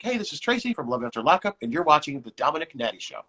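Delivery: light announcer read of a show drop; sample show drop. Shown as a demonstration. Host models the promo line for guest, announcer read. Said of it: "just like".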